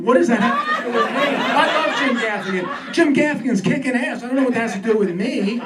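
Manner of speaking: worked-up comic exasperation; exasperated bafflement. Acted. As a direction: protest as if totally baffled. Baffled outburst after uncle's non sequitur.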